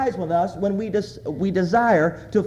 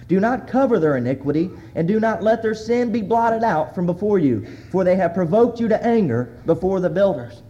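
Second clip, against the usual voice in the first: prayer reading. Acted. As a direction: plead the verses to God. Reads Nehemiah's prayer.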